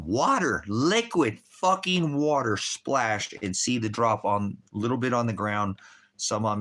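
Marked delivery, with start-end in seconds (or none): 0.0-3.3 amazed. Real, not acted. Retelling eerie splash, amazed.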